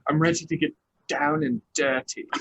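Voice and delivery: mock-British impression of a castmate; British accent. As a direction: do her British accent, playfully. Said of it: "in her British accent".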